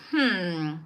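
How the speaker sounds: low, soft doctor voice; pondering doctor. Retold or imitated. Doctor suggests a urine test, low pondering delivery. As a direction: muse quietly as the doctor. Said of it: "And he's like".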